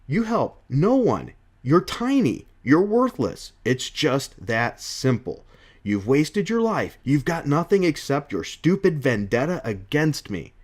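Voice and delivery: slow, emphatic acted put-down; mildly angry character tirade; scornful berating. Acting Jonah berating Spider-Man.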